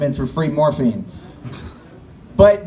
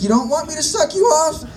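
much higher mock girly voice; hooker's question; 10 semitones higher than usual. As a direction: play her baffled and squeaky. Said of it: "And she's like".

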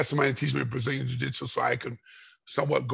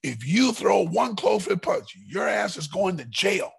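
mock angry warning; 5 semitones higher, slower than usual. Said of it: "He was mad at me".

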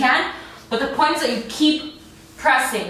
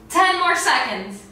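ordinary talk, nothing marked

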